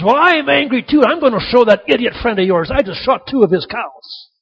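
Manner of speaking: loud, high start easing slightly; worked-up storyteller's angry holler; yelling out. Acted. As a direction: shout back in acted anger. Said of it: "yells out".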